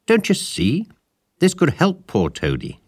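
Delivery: high, loud and urgent. A narrator's reading. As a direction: press the point hard. Rat urges Mole.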